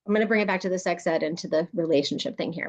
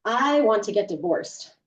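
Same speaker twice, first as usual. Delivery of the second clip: demo statement; slower than usual. Shown as a demonstration. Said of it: "I'm gonna".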